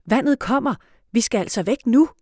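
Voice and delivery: loud, high insistent yell. A narrator's reading. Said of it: "råber han endnu højere".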